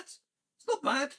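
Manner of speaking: high, slow teasing repeat; sing-song self-satisfied gloat; mock sing-song. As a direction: draw it out up high, mocking. Mock repeat of own remark.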